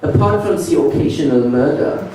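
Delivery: proudly reassure, then slip in menace; creepy German clerk. Retold or imitated. Clerk assuring the tourist Berlin is safe, high creepy German accent. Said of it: "he said".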